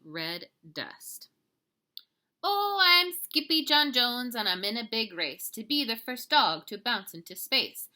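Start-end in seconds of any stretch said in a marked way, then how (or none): 2.4-7.9 boastful kitten hero. Acted. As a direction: announce yourself like a racing champion.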